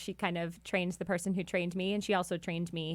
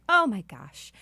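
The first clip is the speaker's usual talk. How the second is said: loud excited outburst, imitated; excited gushing; 3 semitones higher, 9 dB louder, slower than usual. Waitress hears they are midwives, imitated loud excitement. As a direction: burst out like a thrilled waitress. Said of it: "she got so excited".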